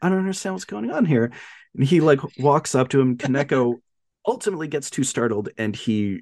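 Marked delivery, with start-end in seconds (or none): 0.0-1.3 mock deflated. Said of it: "he's so deflated".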